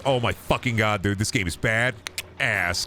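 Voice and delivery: slow, dragged-out awe of an impressed bro; mock stoked gamer dude. Mocking the game's target buyer as a slow, impressed gamer bro. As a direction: stretch out the words like a bro blown away. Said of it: "he goes".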